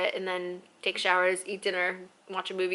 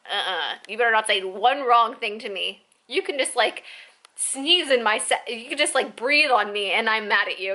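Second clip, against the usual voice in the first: louder, sassy mock warning; bitchy; 5 dB louder than usual. Cranky passenger warning anyone who bothers her, bitchy. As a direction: play up the touchy indignation. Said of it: "such in a bitchy ass mood".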